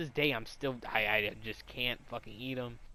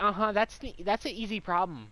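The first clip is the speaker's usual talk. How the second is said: loud, higher-pitched teacher imitation; mock the teacher, pitched up and loud; mimicked teacher; 7 semitones higher, 6 dB louder than usual. Imitates teacher leaning over student.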